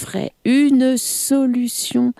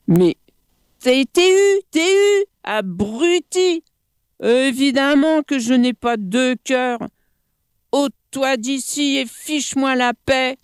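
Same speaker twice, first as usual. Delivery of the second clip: monkey voice; 7 semitones higher than usual. Acted. Monkey mocks crocodile.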